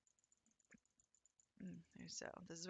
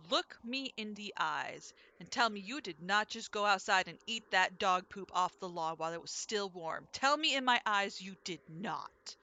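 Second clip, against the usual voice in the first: slow, emphatic mother's demand; mock super-serious; 6 dB louder than usual. Mom teasing her kids about lying, mock super-serious. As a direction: imitate mom's serious interrogation, louder and drawn out. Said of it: "she'd be super serious about it".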